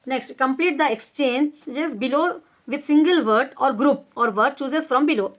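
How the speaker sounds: slow, deliberate reading of a grammar rule; measured classroom dictation; slow textbook reading. Shown as a demonstration. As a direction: read each word out slowly for the class. Reads exercise instructions aloud.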